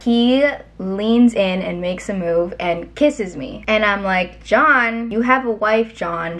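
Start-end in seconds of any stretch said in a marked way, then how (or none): 4.4-6.4 loud, indignant start, then dropping; shocked rebuke. Retold or imitated. Assistant scolding John after he kisses her, shocked and indignant. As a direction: scold him for the kiss. Rebuffing her boss's husband's kiss.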